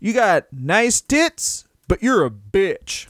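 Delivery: lightly voiced bald mustached man finishing a cigarette; Barry Darsow. Host playing a wrestler as weary dad, mock promo. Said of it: "finishing a cigarette being like".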